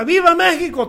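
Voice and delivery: high, ringing cry of Viva; patriotic shout. Retold or imitated. Preacher retelling the independence cry, high patriotic shout. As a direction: call it out like the leader on the balcony.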